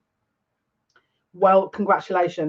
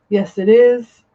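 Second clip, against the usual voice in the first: higher, louder delighted answer; excited yes; 4 semitones higher, 5 dB louder, slower than usual. Real, not acted. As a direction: exclaim it with delight.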